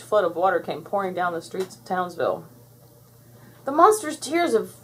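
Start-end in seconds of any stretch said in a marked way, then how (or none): 3.6-4.7 high-pitched alarmed call; mild yell. A narrator's reading. Blossom warning of the flood, mildly yelled. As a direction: raise the alarm without full volume. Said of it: "yelled Blossom".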